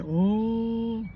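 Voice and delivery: high, put-on "Oh" of mock alarm; mock shocked gasp. Mimicking people reacting to "African American", mock shocked "Oh". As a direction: gasp it like a scandalised listener. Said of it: "being like".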